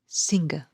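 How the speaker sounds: "singer" with SING stressed; SING-er, weight at the front; stress on first syllable. Shown as a demonstration. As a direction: lean on SING, let the end of "singer" go light. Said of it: "the stress is on".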